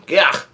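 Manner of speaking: brief retold yelp of pain; mock pained yell. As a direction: imitate a cry of pain, half-hearted. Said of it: "he yells out in pain".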